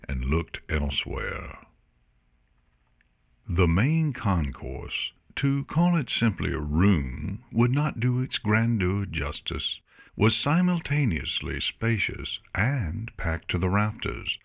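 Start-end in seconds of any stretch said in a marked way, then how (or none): none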